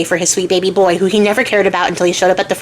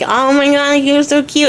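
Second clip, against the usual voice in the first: gushing flirt; 5 semitones higher, slower than usual. Retold or imitated. Ariadne flirts at the cell bars.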